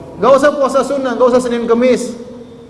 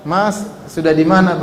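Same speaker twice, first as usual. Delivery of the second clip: gentle asking; 2 semitones lower than usual. Shown as a demonstration. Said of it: "gimana kalau tanya".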